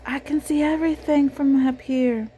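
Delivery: mouse voice. A narrator's reading. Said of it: "what she thought was".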